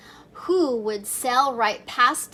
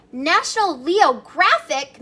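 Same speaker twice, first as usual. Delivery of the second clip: mused aloud; 4 semitones higher, 6 dB louder than usual. Acted. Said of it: "mused Mom".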